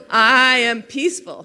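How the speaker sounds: laughing loudly while speaking; laughing through it. Shown as a demonstration. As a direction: get the words out through a laugh. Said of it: "say it a little quieter".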